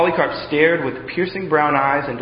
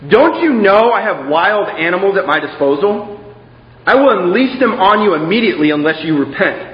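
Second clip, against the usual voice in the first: louder, higher threatening shout; angry shout; 4 semitones higher, 6 dB louder than usual. Acted. Proconsul threatening the prisoner with beasts, loud angry shout. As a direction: threaten him, voice raised. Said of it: "shouted angrily back".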